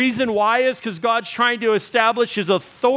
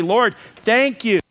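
model prayer. Shown as a demonstration. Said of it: "just say".

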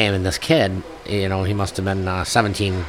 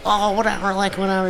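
dismissive; 9 semitones higher than usual. Retold or imitated. Kid dismissing threat.

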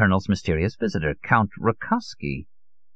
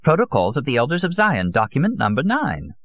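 lightly voiced, higher-pitched old man; elderly conspiracist; 9 semitones higher than usual. Old Solon cites a document to his listener, lightly voiced conspiracist. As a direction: pronounce it like secret evidence, in character.

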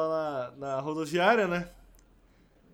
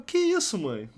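a jolt of disbelief, pitched up; startled protest; 3 semitones higher than usual. Retold or imitated. Son startled by mother's talk of dying, alarmed protest.

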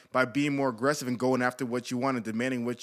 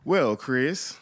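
Forrest Gump voice. Pretend. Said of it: "is it Forrest Gump".

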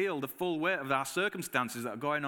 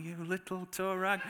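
half-laughing fond telling-off of the cocky dog; laughing mock scolding; 4 semitones higher than usual. Owner laughing at her cheeky sheepdog, a laughing mock scold. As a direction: scold the dog through a laugh, not meaning it. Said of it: "and I'm like".

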